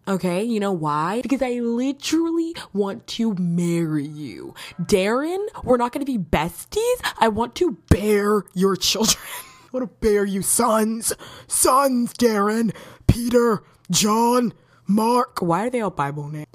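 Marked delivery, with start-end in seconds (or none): 4.8-15.4 mock lovestruck gushing. Gushing crush fantasy rant.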